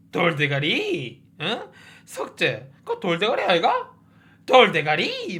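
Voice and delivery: a slow, lightly voiced sneer at a thickhead; mocking taunt. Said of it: "막 이런단 말이야". (가볍게 흉내 낸 조롱조)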